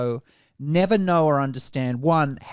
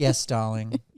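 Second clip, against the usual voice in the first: mock condescending, patronizing tone, lower pitch; 5 semitones lower, 3 dB quieter than usual. Repeating the earlier reply as a joke: mock condescending. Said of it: "That was so condescending".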